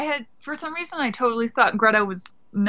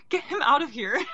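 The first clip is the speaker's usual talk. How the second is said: laughing; 4 semitones higher than usual. Retold or imitated. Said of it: "I was like".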